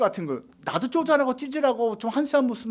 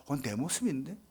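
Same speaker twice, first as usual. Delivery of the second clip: hushed, breathy realization; the preacher whispers that Jacob is his own image; 7 semitones lower, 10 dB quieter than usual. Real, not acted. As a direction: whisper it as a sudden discovery. Realizing it's himself.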